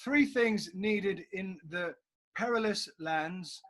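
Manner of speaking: slow, grand hammy actor read; Bradley James acting voice. Shown as a demonstration. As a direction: deliver it like a TV hero, slowly. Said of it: "my Bradley James acting voice".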